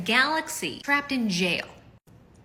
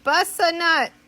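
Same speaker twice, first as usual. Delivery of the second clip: louder and slow, reveal; 3 semitones higher, 8 dB louder, much slower than usual. Shown as a demonstration. Wife revealing the backwards joke, louder and slow. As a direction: land the punchline loud and slow. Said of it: "Backwards spells".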